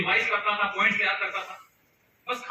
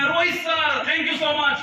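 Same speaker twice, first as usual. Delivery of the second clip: bright, happy thanks, a bit louder; excited thanks; 4 semitones higher, 3 dB louder, slower than usual. Retold or imitated. New recruit thanking his senior, excitedly. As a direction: gush like a thrilled new recruit. Boy arrives happy with friend.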